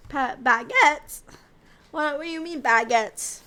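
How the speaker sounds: loud, slowed double take; incredulous outburst; startled disbelief. Real, not acted. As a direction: blurt it out, thrown by the word. Startled by chat's odd message.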